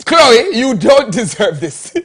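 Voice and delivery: slow, pleading mock sincerity; mock heartfelt apology. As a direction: ham up a tearful apology.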